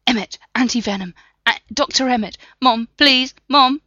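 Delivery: high, loud pleading for mother; desperate fading pleas. Acted. Dying Block calling for his mother, high and desperate. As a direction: reach for mom in final panic.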